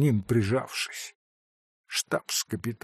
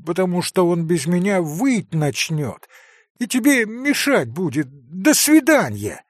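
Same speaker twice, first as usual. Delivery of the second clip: put-on eager promising boy; 6 semitones higher than usual. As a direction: promise everything before the tears. Kolya hurriedly promises, holding back tears.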